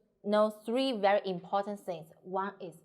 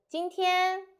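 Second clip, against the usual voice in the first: 今天 raised high, then held off; pause after 今天; 9 semitones higher, 4 dB louder than usual. Shown as a demonstration. Teacher showing the grammatical pause, stopping after 今天. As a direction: set 今天 apart before a pause. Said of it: "have a pause".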